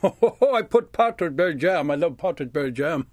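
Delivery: chuckling through the words about the jam; laughing with delight. Real, not acted. Storyteller savouring the memory of jam, laughing with delight. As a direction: laugh with pleasure as you remember the taste.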